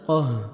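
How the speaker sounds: heavy "قہ" ending on a breathed h; audible final ha. Shown as a demonstration. Teacher showing the stop, "قہ" with breathed ending. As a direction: say "قہ" with thick qaf and sounded ha. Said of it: "last میں ہا کا sound آئے گا".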